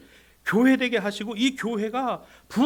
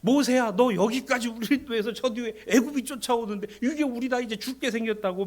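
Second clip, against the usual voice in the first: loud, raised-pitch mock protest; acted complaining; 4 semitones higher, 4 dB louder than usual. Israelites protesting to Moses at the Red Sea, loud acted complaint. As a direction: cry out in complaint at your leader. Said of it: "이스라엘 백성들이 불평 안 했어요".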